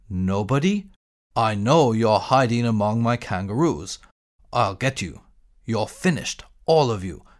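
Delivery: low, threatening giant voice; menacing giant. Acted. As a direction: growl out a threat.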